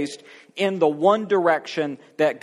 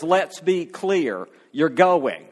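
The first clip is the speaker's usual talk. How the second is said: firm, slow, stern warning; a hint of a stern God laying down the law; mild mock anger; slower than usual. God losing patience with a reluctant Moses, stern and firm. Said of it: "God gets angry and says".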